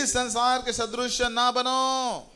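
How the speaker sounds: high, slow, drawn-out call; lead congregational repetition. Shown as a demonstration. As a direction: call out the verse for everyone to echo. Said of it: "मेरे पीछे बोलिए".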